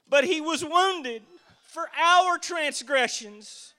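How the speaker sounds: slow, weighty scripture reading; read slowly. Shown as a demonstration. Preacher reading Isaiah to the church, slow and weighty. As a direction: let each word sink in. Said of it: "I'm gonna read it kinda slow".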